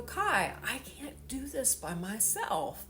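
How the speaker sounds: crying for real while telling it; mother in tears begging her son to understand. Real, not acted. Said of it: "like what I'm doing right now".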